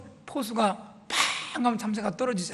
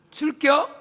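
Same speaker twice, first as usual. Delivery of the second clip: clipped Chungcheong dialect, much higher, with a laugh; 8 semitones higher, 5 dB louder, slower than usual. Shown as a demonstration. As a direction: blurt it short like a country local. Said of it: "간단해요".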